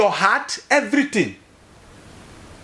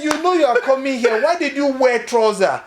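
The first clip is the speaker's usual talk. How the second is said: high mock-scolding Nigerian nurse; 6 semitones higher than usual. Nigerian nurse scolding a patient about trousers, mock high scold. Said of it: "they say".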